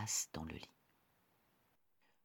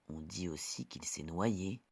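whispering; 9 dB quieter than usual. A narrator's reading. Story ends in hush.

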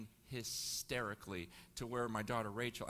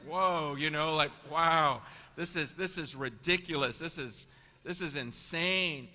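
amazed wow; 4 semitones higher, 10 dB louder than usual. Retold or imitated. Wide-eyed awe at persecution stories.

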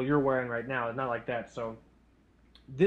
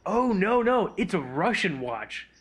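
put-on clueless kid; 4 semitones higher, slower than usual. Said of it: "He's like".

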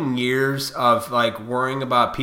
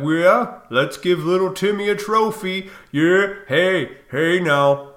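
mocking pushover parent; 5 semitones higher, 4 dB louder, slower than usual. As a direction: sneer it like a coddling mom. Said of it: "just being like".

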